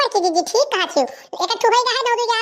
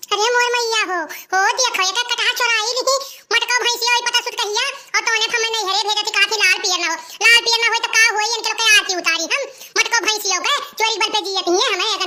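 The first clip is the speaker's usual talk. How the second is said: higher, wailing scold at the thieves; raised, indignant village rant; angry lament; 3 semitones higher than usual. Acted. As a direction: cry out to the heavens over the stolen jackfruit. Owner catches jackfruit thieves.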